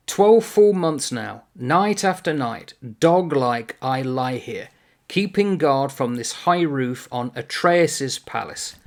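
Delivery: slow, emphatic recital of Greek tragedy; dramatic verse reading. Acted. Lecturer reading the watchman's lines aloud to students, slow dramatic recital. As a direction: declaim it slowly, weighting each phrase.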